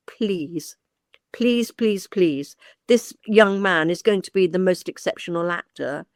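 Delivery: retold plea, each word set apart; mild, measured begging; pleading. Agent writing to the dean for her client, pleading.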